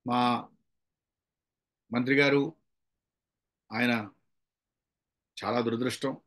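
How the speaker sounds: low, slow and halting, with long pauses; slow condolence speech. Shown as a demonstration. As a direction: speak slowly as at a condolence meeting. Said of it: "అప్పుడు మనం స్లోగా చెప్పాలి". (సంతాప సభలో లాగా నెమ్మదిగా)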